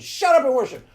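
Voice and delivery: loud, stern shut up and worship; hammed-up parent bark; mock parent order.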